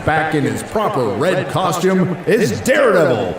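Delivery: ring announcer. Pretend. Boxing ring announcer intro.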